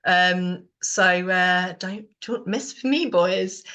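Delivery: jokey warning. Retold or imitated. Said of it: "we kind of say it in a jokey way".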